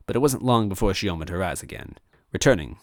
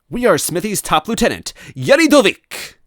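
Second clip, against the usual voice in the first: high, loud boastful villain voice; smug villain toad; 13 semitones higher, 10 dB louder than usual. Acted. Toad villain boasting to captives, high and smug. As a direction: puff it up like a pompous henchman.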